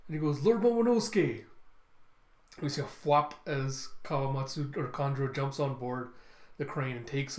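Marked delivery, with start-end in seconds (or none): 0.4-1.4 high, loud imitated cry; calling back. Retainer answering captured young lord, loud imitated cry. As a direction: call out to your endangered lord.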